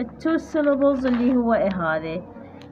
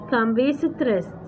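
slow text reading; much slower than usual. Shown as a demonstration. Slowly reads the English text.

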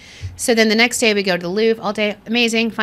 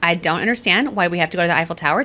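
sulky rage. Retold or imitated. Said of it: "I am blackout rage".

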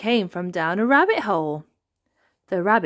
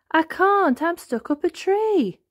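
high, raised plaintive answer; calling back; 11 semitones higher, 3 dB louder than usual. A narrator's reading. Wilbur answers from above the elephants, calling back. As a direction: call down from a height.

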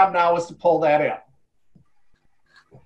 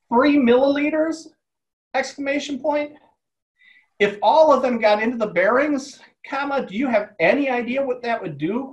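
higher, startled burst at "Three milliliters" that stays raised; alarmed disbelief; 4 semitones higher than usual. Acted. Writer voicing Maureen the tech, aghast at Patrick, higher and startled. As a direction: pitch jumps up in shocked disbelief. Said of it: "Maureen's eyes opened wide".

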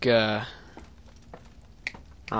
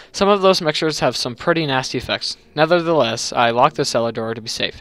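reading a note in character; 5 dB louder than usual. Acted. Reading landlord note aloud.

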